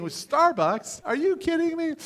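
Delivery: playful outrage at the suggestion; mock disbelief. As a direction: scoff at the very idea, pitch jumping up. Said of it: "So I'm sitting there thinking".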